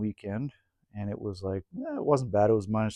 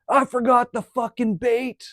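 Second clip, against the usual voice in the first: much higher, slow, loud wail; retold dismay; 12 semitones higher, 4 dB louder, slower than usual. Friend admitting he forgot the bait, slow high wail. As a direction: moan it like it's a disaster, high and drawn out. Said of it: "He goes".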